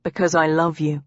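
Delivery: low, simple declaration of love; mild, sincere tenderness; understated love confession. Acted. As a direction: confess it gently, a touch low. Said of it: "didn't know whether to laugh or feel nervous".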